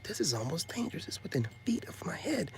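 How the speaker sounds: hushed whisper to himself; breathy inner-voice whisper; whispered thought. Retold or imitated. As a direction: whisper it like a secret aside. Whispering his thought near danger.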